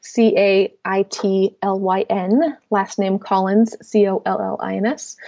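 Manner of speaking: letter by letter, slow and clear; spelling it out. Shown as a demonstration. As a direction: spell each letter so they can write it. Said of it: "is spelled".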